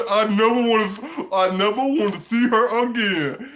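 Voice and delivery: high, loud, laughing mock whine; hammed-up heartbroken date; mock wounded guy. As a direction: wail it through laughter. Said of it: "She was like".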